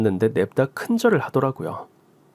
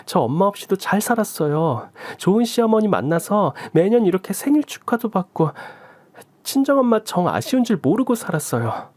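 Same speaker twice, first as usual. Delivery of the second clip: higher, resentful and cutting, rising toward the end; sulky resentment; 6 semitones higher than usual. Acted. Resentful daughter, sulky and sharp. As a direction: daughter lashing out at the mother who left. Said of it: "말이 삐딱하게 나가더라고요".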